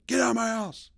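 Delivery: high, loud imitation of a furious dad; bear-like roar. Black dad ordering an intruder out, roaring. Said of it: "screaming at this guy like a bear".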